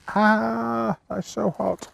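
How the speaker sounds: yelping at burnt fingers; high pained yelp, fingers burning; burnt fingertips. Real, not acted. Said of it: "I really need to get some thicker hands".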